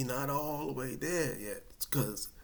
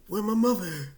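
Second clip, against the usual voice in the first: loud high call; calling for mom; 8 semitones higher, 8 dB louder than usual. Retold or imitated. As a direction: shout for your mother. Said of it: "the first thing I'm thinking".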